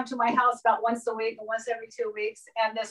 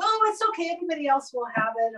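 higher-pitched, breezy mock friend voice, rushing the second part; dismissive friend; 3 semitones higher, faster than usual. Guest waving off the host's objection, in a light high mock voice. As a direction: imitate a friend brushing off the fuss, lightly and quickly. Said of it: "She goes".

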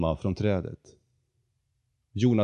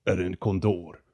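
proud condor. Acted. The condor boasting to Jonathan about his proud family. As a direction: announce your grand lineage.

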